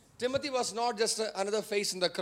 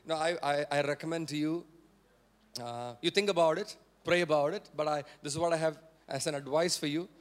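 low, tentative, hedging advice; politically correct; 5 semitones lower than usual. Acted. Preacher mimicking politically correct advice, tentative and hedged. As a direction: offer it as a mild, careful recommendation. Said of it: "if it has to be politically correct".

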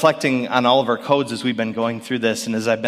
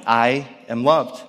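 slow, tender repetition; slow, reflective; slower than usual. Shown as a demonstration. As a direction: savour each word, slowly. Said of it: "that was her reality".

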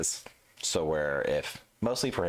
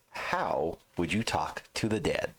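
reading verbatim; slower than usual. Shown as a demonstration. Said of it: "I'm gonna read this verbatim".

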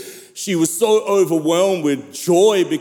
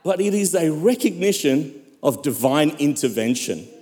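emphatic sermon delivery with weighty pauses; impassioned preaching; 3 semitones higher than usual. Real, not acted. Preacher proclaims God's grace to the church, impassioned preaching. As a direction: preach with rising, swelling cries and hushed drops.

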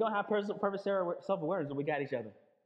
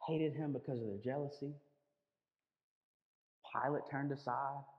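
solemn preaching; 5 semitones lower, 4 dB quieter than usual. Real, not acted. Preacher telling congregation of Jesus as innocent victim, solemn and hushed.

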